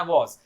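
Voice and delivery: वॉज with aw and final z; correct pronunciation. Shown as a demonstration. Teacher recapping, correct pronunciation of वॉज. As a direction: say WAS as वॉज. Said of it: "उसे pronounce करना".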